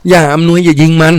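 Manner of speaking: high, drawn-out frightened plea; urgent cry to stop. A narrator's reading. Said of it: "ร้องห้ามเขา".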